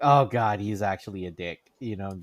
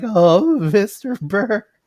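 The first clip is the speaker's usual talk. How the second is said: put-on very high, loud, gushing starstruck fanboy voice; 11 semitones higher, 7 dB louder than usual. Retelling meeting a favorite comedian: imitating own nervous fanboy tone. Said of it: "I was total fanboy talking to him".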